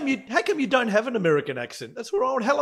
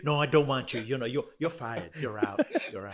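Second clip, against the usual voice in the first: mock firing, voice sinking away; hint of a picky boss, dropping to a low murmur; dismissive boss; 4 semitones lower than usual. Acts out Trump choosing and firing.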